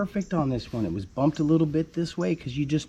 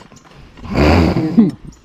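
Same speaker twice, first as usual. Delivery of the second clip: a real burst of loud laughter; 8 semitones lower, 10 dB louder than usual. Real, not acted. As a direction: laugh out at your own joke. Laughs at own joke.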